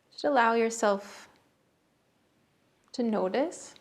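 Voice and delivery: unhurried meditation guidance, long pauses between phrases; guided meditation. Real, not acted. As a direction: guide listeners gently into the breath, phrase by phrase. Leads a breathing meditation.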